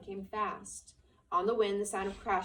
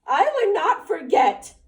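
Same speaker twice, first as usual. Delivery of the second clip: loud, high protest; 10 semitones higher, 15 dB louder, slower than usual. A narrator's reading. Lenny protesting to the rabbit, loud and high. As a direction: shout it back, high. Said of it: "Lenny said loudly".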